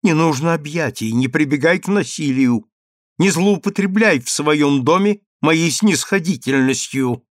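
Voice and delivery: a touch of a menacing outcry; stern cry. Acted. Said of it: "грозно вскрикнула Эмина".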